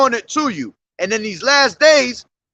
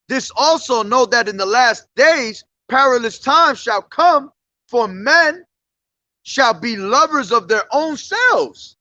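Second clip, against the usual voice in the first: scripture reading. Real, not acted. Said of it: "I'll start at the top".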